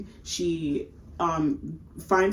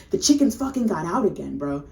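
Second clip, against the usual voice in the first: commanding; 5 dB louder than usual. Retold or imitated. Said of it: "And it's very commanding".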